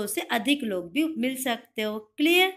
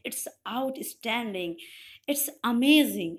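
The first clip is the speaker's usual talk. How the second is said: slow praise; much slower than usual. Shown as a demonstration. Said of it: "आपके teacher आपको बोलते हैं".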